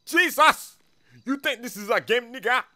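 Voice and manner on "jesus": repeated yells. Acted. Boss keeps yelling for silence.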